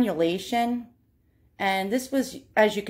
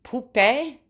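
French accent; 2 semitones higher, slower than usual. Shown as a demonstration. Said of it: "Oh God, French, help".

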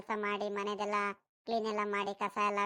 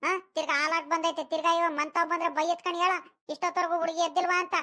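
raised, higher-pitched nagging; insistent grandmotherly scolding; scolding wake-up; 4 semitones higher than usual. Acted. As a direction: nag a sleeper out of bed. Grandmother scolds sleeping child awake.

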